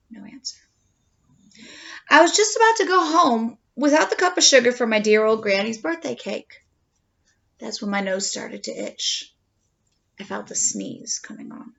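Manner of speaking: lightly voiced wolf narrator, chatty; a hint of a sly wolf telling his side; storytelling wolf. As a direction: tell it as the wolf, confiding. Reads the wolf's story aloud.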